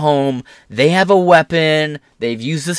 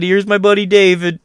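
mock casual; 6 semitones higher than usual.

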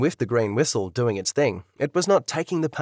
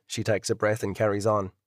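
ordinary delivery

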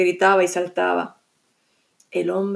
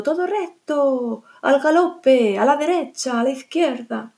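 guiding the horse; 4 semitones higher than usual. Acted. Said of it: "le iba diciendo".

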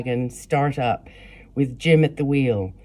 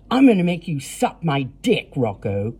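snarling; 2 semitones higher than usual. Acted. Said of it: "Cody snarled".

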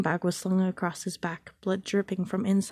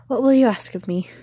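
pinched and worried; 4 semitones higher, 9 dB louder than usual. A narrator's reading. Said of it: "her voice pinched and worried".

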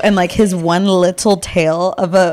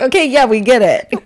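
laughing; 5 semitones higher, 4 dB louder than usual. Pretend. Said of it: "they're like".

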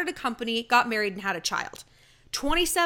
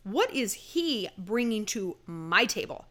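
unimpressed attitude; 2 semitones lower, slower than usual. Retold or imitated. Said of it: "with the attitude of".

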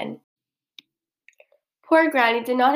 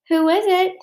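high cackly calling; wolf posing as granny, calling high; 9 semitones higher, 3 dB louder than usual. A narrator's reading. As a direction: call out in a high-pitched cackle of a voice. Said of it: "he called in a cackly voice".

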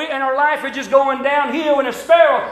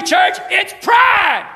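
drawn-out, higher shout on pride; preaching shout; 5 semitones higher, much slower than usual. Real, not acted. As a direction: bellow it to the church. Preacher hammers point on pride.

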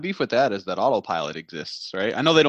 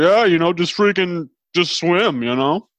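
put-on drunk scuba instructor; 4 semitones higher, 4 dB louder than usual. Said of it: "my drunk scuba instructor voice".

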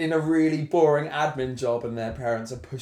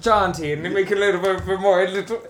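put-on jaunty Irish accent; lilting Irish accent, a bit higher; 4 semitones higher, 3 dB louder than usual. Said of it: "everything I'm saying in this accent".

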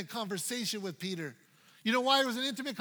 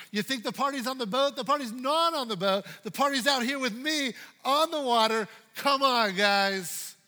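calling out; 3 semitones higher, 5 dB louder than usual. Acted. Jesus calls disciples off boat.

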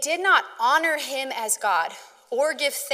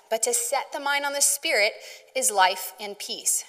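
scripture reading; 4 dB louder than usual. Acted. Reads Romans eight aloud.

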